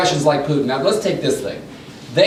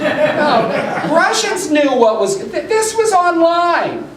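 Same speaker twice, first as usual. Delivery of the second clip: laughing while speaking, higher; 10 semitones higher, much slower than usual. Real, not acted. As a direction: talk through the laughter at the joke. Laughing at the ballot poster.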